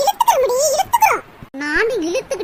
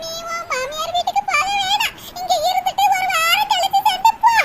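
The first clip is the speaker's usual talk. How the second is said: tearful laughing plea; 6 semitones higher than usual. Acted. Mother weepy-laughing, begging daughter stay.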